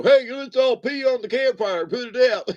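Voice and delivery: put-on high kid-like rallying cry; imitating excited children. Children at a campfire egging each other on, imitated high voice. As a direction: pipe up like a child calling friends. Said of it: "We as children used to go".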